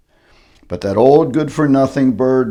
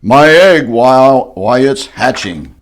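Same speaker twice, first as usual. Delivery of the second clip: excited shout; 7 dB louder than usual. Acted. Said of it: "shouted Horton".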